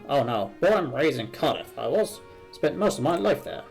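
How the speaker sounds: lilting, rambling storyteller; lightly acted chatty game character; lightly voiced chatty Cardiff character. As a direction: spin a life story with relish.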